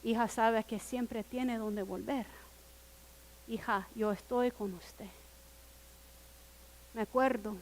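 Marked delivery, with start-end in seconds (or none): 0.0-5.1 softer, gentle reassurance from a father; a daughter's father answering her call with tenderness; gentle fatherly voice. Retold or imitated. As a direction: tell her softly she can always come home. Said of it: "Y escucha con una suavidad".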